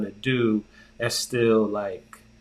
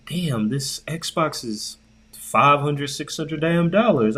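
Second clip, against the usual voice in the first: higher, drawn-out disbelief; incredulous outburst; 4 semitones higher than usual. Retold or imitated. Shopper reacting to Xbox pricing, incredulous. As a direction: relive the sticker shock, pitch climbing. Quoting own shock at prices.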